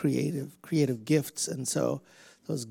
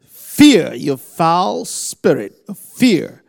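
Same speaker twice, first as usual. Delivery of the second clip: loud, forceful shouted command; commanding rebuke; 14 dB louder, slower than usual. Real, not acted. Preacher rebuking the spirit of fear, shouting. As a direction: drive the spirit out with a roar.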